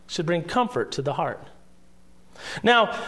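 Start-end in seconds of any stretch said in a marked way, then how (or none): 0.1-1.4 soft repeat. Shown as a demonstration. Pastor repeats the point to his congregation, soft and quieter. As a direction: echo it back softly, leaning on bring. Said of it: "those words of truth should bring comfort".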